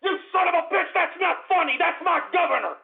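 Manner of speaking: high, half-laughing indignation; mock-angry, laughing at the joke; laughing outrage. Real, not acted. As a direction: scold through a laugh.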